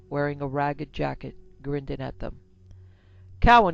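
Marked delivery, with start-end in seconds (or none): 3.4-3.7 high, loud yell of a name. A narrator's reading. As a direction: call him from across the porch. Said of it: "he yelled".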